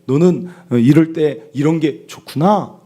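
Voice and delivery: lightly mimicked counsellor, stretched ending; 오은영 박사. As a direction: lift and draw out the empathetic ending. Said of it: "뒤에를 꼭 올리는 그 말투가 있어요". (끝을 길게 올리는 상담사 말투 흉내)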